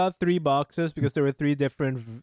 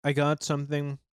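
talking while chewing; words around a bite of food; mouth full. Real, not acted. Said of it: "Sorry, I'm eating right now".

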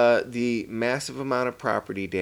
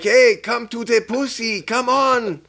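high coaxing call; coaxing a pet; 10 semitones higher than usual. Retold or imitated. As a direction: lure him like a kitten, high-pitched. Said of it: "and he's like".

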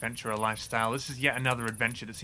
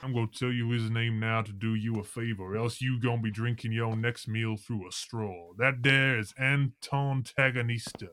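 gruff henchman voice. Acted. Henchman introduces the boss.

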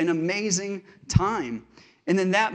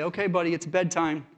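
nicely said. Retold or imitated. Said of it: "nicely say".

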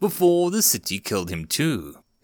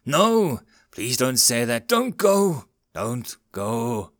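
tearful pleading; slower than usual. Acted. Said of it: "Ricky's tears flowed freely now".

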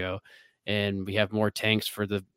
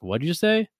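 puzzled bartender; 8 semitones higher than usual. Retold or imitated. Bartender confused, imitated.

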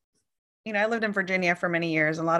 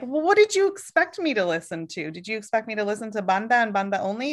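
exasperated retort. Retold or imitated. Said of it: "I'm like".

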